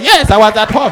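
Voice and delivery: firm, unapologetic confirmation; defiant insistence. Acted. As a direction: stand your ground when challenged. Witness insists when challenged.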